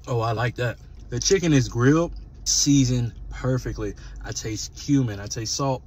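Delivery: chewing while talking; speaking around a bite; mouth full. Real, not acted. Seen 0: spoon enters mouth at 0.6, chewing continues while speaking after.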